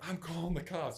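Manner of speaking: high, loud retold warning; retold threat. Retold wife threatening during fight.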